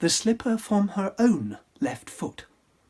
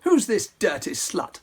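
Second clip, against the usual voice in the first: sneering cry; 3 semitones higher than usual. Acted. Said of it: "The prince cried".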